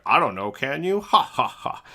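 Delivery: loud teasing retort, then mock ha-ha-ha; imitated joker's laughter. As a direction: mimic someone roaring at their own joke. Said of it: "he's just laughing his ass off".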